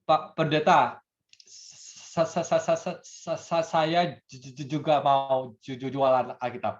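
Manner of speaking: stammering over every repeated Pak; stutter. Acted. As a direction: act out a man who stammers. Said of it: "orang ini gagap gitu ya". (bicara gagap)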